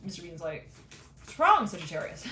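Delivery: normal talking voice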